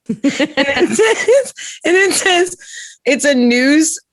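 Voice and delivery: high words through laughter; giggling while trying to read; real laughter breaking the words; laughing. Real, not acted. Laughing over embarrassing meme.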